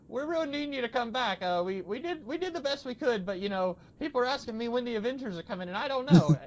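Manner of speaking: high-pitched, self-mocking attempt at an Australian accent; imitating Talos in a clumsy Australian accent; bad Australian accent. Friend imitates Talos in a shaky Australian accent. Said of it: "I can't do an Australian accent to save my life".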